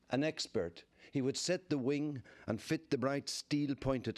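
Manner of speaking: measured verse with pauses between lines; poetry recital, each image given room; poem reading. Acted. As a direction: read the poem aloud, phrase by phrase. Reads own poem aloud.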